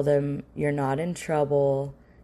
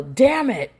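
sudden higher, louder outburst; yelled curse; 7 semitones higher, 6 dB louder than usual. Retold or imitated. Frustrated parent admitting a slip, yelled. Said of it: "you're gonna yell".

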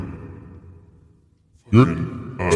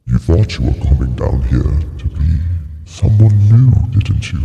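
devil voice with a British tinge; lightly British accent, lifting toward the end; 2 semitones higher than usual. Acted. Trying accents with the devil voice, British-tinged. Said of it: "there's definitely a British kind of British".

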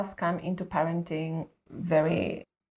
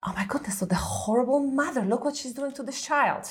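judgmental whisper; 5 semitones higher than usual. Retold or imitated. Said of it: "I was like".

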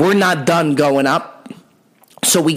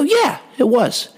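reluctant drawn-out yes; 10 semitones higher, slower than usual. Retold or imitated. Admitting to uncle, worried.

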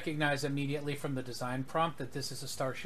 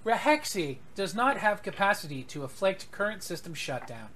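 calm ship computer; 4 semitones higher than usual. Acted. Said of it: "Your computer has a lot of attitude".

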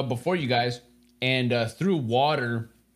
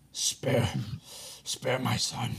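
feeble plea; 8 dB quieter, slower than usual. Acted. Dying captive pleads for son.

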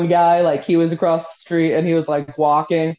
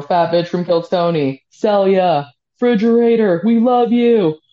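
retold fan yell; 3 dB louder than usual. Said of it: "people just screaming shit".

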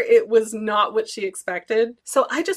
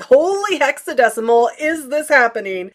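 inner excited disbelief; 4 semitones higher, 5 dB louder than usual. Retold or imitated. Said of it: "heard a pop in my brain".

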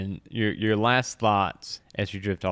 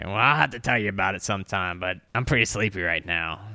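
mimicked player voice; faster than usual. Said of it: "I'm gonna mimic your voice for you".

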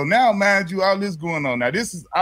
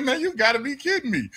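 pitched-up retold disbelief; incredulous; 7 semitones higher than usual. Retelling his answer to the officer's deal, incredulous. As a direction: replay the scoff at the absurd offer.

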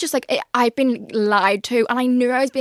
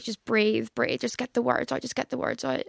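hushed guided-breathing voice; soft coaxing; 7 dB quieter than usual. Retold or imitated. Girlfriend guiding her ex to confess, softly coaxing. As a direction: coax gently under your breath, retold. Coaxing boyfriend through mindfulness.

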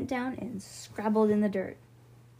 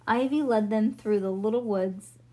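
ordinary delivery, nothing marked

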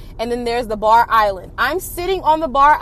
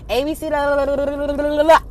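blah-blah rattle; 2 semitones higher, faster than usual. Retold or imitated. Skipping through the friend's rant.

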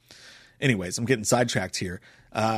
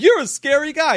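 high, loud taunting put-on voice; Ray Liotta impression; 7 dB louder than usual. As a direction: needle him like a creepy cop. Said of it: "He's like".

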